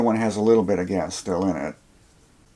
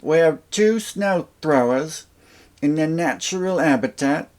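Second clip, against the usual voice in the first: hushed wildlife narrator voice, higher; nature documentary; 8 semitones higher than usual. Pretend. Mock nature documentary intro.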